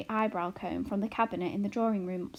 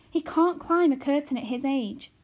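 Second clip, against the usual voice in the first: anxious mother; 6 semitones higher, 6 dB louder than usual. A narrator's reading. Homily protests.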